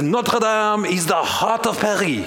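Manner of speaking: put-on a preacher putting on a mild French accent. Preacher quoting a French philosopher to his congregation, in a light French accent. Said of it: "I'll try my best Bernard-Henri Lévy accent".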